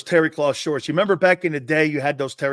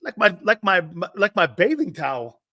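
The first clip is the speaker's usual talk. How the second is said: Jerome Brown; 5 semitones higher than usual. Retold or imitated. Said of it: "he goes".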